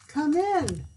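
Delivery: high, loud welcome; booming king. A narrator's reading. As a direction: boom it out like a jolly king. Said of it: "said the king".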